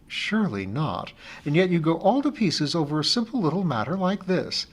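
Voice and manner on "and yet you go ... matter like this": higher voiced friend, affectionate; a friend gently teasing her over the phone; friend Amy, fond teasing. Friend Amy teases the anxious teacher, affectionately higher.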